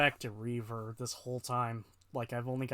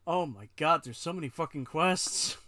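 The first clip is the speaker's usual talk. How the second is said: loud, fed-up groan of a complaint; exasperated; 4 semitones higher, 4 dB louder than usual. Real, not acted. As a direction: vent at the endless list. Overwhelmed by the quest list.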